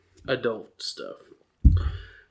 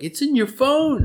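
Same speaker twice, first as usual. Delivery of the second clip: a high, exasperated plea; exasperated urging; 11 semitones higher, 3 dB louder than usual. Retold or imitated. Husband pleading with wife to find the card photo, high and exasperated. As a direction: pitch it up, pleading with her.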